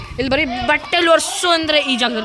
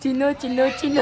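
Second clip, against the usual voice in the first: cooing to the car; 2 semitones higher than usual. Pretend. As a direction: coo the pet name like to a sweetheart. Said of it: "ಕಿವಿಗೆ ಹಂಗೆ ಹೇಳು ಒಂಚೂರು".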